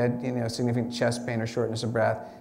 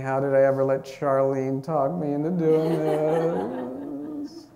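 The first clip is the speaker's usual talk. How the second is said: slow, laughing mock panic at the top; mock roller coaster dread; slower than usual. Coaster rider at the top of the hill, mock panicked and laughing. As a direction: fake terror with a laugh in it. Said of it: "you're thinking".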